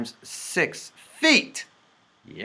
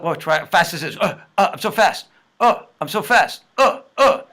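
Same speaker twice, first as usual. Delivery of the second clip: mock-excited, higher and louder; a teacher jokingly showing off how fast the method is; playful boast; 4 semitones higher, 5 dB louder, faster than usual. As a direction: brag about being so fast, hammed-up. Boasting about speed, playful.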